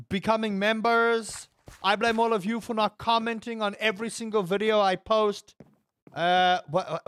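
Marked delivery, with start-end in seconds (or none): 0.1-5.5 mock accusation; sarcastic. Streamer jokingly scolding viewers for not commenting, sarcastic. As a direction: lay on the blame in jest. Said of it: "I'm being sarcastic".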